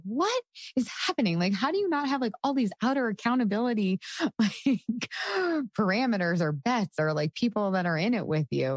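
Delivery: high, incredulous squeal of amazement; amazed disbelief. Retold or imitated. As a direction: ask in wide-eyed disbelief. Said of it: "And I would be like".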